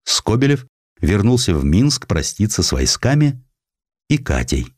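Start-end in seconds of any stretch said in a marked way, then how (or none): none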